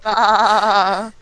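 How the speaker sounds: muffled behind a hand; hand over mouth. Pretend. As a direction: say it through your palm. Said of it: "put my hand over my mouth and go".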